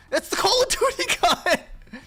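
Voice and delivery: high, loud excited laughter; laughing excitedly. Real, not acted. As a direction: burst out laughing at the discovery.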